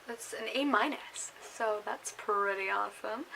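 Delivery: hiccupping while talking; hiccups. Real, not acted. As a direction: speak with hiccups. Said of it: "I have the hiccups".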